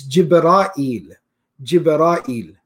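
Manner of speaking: Jibra'il in three parts, jib-ra-EEL; slow Jibra'il with long aa and separate eel; variant pronunciation. Shown as a demonstration. Teacher showing the form used in Farsi and Urdu, Jibra'il as jib-raa-EEL. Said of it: "Another pronunciation".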